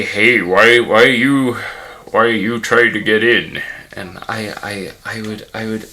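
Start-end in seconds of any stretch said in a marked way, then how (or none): 0.0-3.6 loud bouncer with a put-on Native American accent; booming caricature of a Native American accent. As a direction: challenge someone loudly in a mock Native American accent. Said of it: "Why am I doing a Native American accent?".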